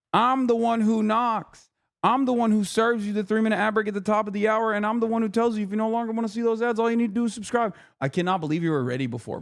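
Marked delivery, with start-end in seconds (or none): 0.1-7.7 mock Heisenberg threat, then a quick ad read; menacing parody. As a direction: ham up a villain's boast. Breaking Bad line parody.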